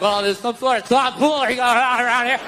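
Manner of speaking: polite adult. Retold or imitated. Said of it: "be the adult and go down to the principal and be like".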